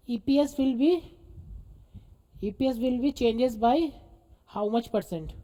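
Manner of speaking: slow, spaced-out dictation. Real, not acted. Teacher dictating an EPS question to students, slow dictation. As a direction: give it phrase by phrase for writing down.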